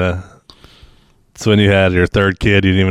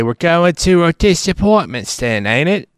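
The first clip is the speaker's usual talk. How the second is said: a mock drawled put-on accent, higher and slow; 10 semitones higher, slower than usual. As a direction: try out a silly new accent, drawn out and high. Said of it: "That's my new, uh, accent".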